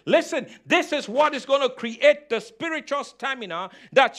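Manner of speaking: driving, insistent sermon delivery; emphatic preaching. Real, not acted. Preacher urging the congregation to trust the word, emphatic preaching. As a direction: preach it with punchy stressed key words.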